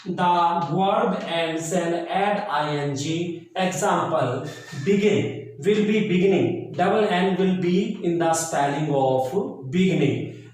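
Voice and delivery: very slow, deliberate reading of rules for students to copy; slow dictation. Acted. Teacher dictating English spelling rules to the class, very slow and measured.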